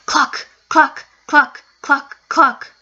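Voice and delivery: high, eerie chicken clucks; clucking chicken. Acted. Ghost chickens clucking at the scared girl, eerie. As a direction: cluck like a ghostly hen closing in.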